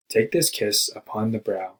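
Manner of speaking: slow, measured poetry recital; poem reading. Acted. Student recites Poe's poem to the class, slow and measured. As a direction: read the line like a poem, slowly.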